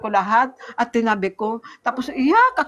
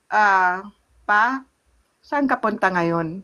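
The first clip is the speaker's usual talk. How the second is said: gentle question; 3 semitones lower, slower than usual. Retold or imitated. Gently asking husband after crying.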